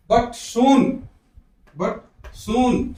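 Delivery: soon with the oo stretched long; long vowel. Shown as a demonstration. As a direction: draw out the oo in soon. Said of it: "soon थोड़ा लंबा खींचना है".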